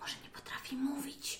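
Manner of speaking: fully whispered, very hushed theatrical stage whisper. In a role-play game, to a stranger who won't answer: theatrical whisper. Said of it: "Mówi takim teatralnym szeptem".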